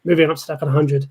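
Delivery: slightly winded, talking fast; out of breath. Real, not acted. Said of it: "I'm running out of breath 'cause I've talked so fast".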